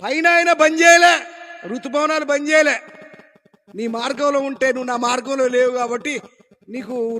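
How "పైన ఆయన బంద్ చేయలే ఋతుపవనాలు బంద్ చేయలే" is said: emphatic. Acted. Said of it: "emphatic preaching point".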